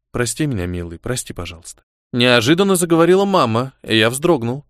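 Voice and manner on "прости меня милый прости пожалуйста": much softer, lower, fading plea; mother begging forgiveness, softer and lower; tender apology. Acted. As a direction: barely breathe the apology. Dead mother apologizes in dream.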